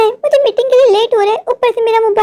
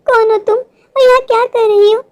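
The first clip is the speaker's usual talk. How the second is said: frightened cry; 3 semitones higher than usual. Acted. Priya frightened by stranger.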